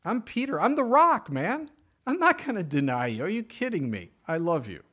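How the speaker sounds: a swaggering, loyal fisherman swearing he'll never fail; boastful Peter. Retold or imitated. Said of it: "he basically told the Lord".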